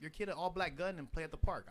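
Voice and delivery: real worked-up rant; heated. Real, not acted. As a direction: hammer home the point. Heated opinion on toy guns.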